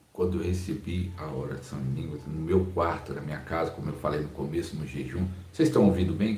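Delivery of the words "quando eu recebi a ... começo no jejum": soft, lower-pitched, subdued delivery; speaking rather low. Real, not acted. Pastor recalling his first prayer in tongues, speaking rather low. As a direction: keep the voice down and low. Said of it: "eu tô falando meio baixo".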